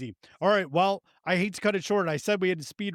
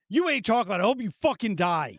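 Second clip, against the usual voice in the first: mock fury, pitched up at the start; retold anger; 6 semitones higher than usual. Owner cursing the dog that ate chocolate, retold anger. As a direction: re-enact being mad at the dog. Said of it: "Oh, I was so mad at him".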